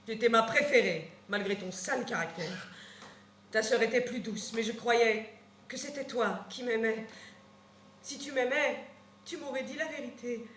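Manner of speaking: plus doux, voix qui baisse; reproche chagriné. Acted. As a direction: reprocher tristement, sans crier. Nourrice pleure doucement. (la nourrice peinée parle à Antigone, plus douce)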